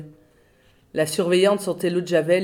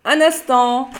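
slow, higher sing-song greeting; hospital operator greeting like a flight attendant; air hostess voice; 5 semitones higher, 4 dB louder, slower than usual. Acted. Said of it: "parlait comme une hôtesse de l'air".

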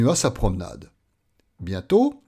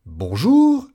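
high, loud, sing-out hello; very friendly greeting; 7 semitones higher, 7 dB louder than usual. Acted. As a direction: greet him most kindly. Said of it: "très aimable". (bonjour très aimable, lancé haut)

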